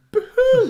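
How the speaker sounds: hammed-up imitation of a grown man sobbing; mock sobbing. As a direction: bawl "Boo-hoo" high and loud, laughing through it. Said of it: "three times just goes".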